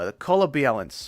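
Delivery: slight Minnesota accent on "balance", said "biɛləns"; a light Minnesota twang on "The color balance". Shown as a demonstration. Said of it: "I sounded like I was from Minnesota".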